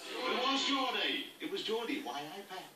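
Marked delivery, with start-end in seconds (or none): 0.1-1.3 slow, drawn-out rhythm. Shown as a demonstration. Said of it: "from the rhythm we understood".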